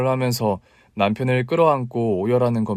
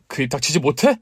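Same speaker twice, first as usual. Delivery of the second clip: mild menace; 2 semitones higher than usual. Acted. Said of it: "무섭게 소리 지르며".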